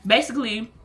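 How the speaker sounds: ordinary talk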